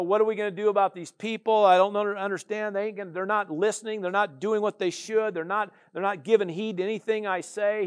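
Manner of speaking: a touch of complaint, slightly high; mock whining. Jeremiah complaining to God about the people, mock whine. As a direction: lightly whine like a fed-up prophet. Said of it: "He's just kinda whining".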